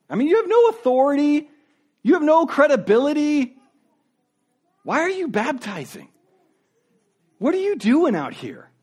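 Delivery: mock officials scoffing at John's authority; dismissive leaders. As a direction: belittle him as a nobody. Leaders dismiss John as nobody.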